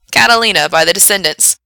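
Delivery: loud, projected song title; radio DJ announcing. Acted. Frank introduces the requested song, loud DJ announcement. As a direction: announce it to the listeners.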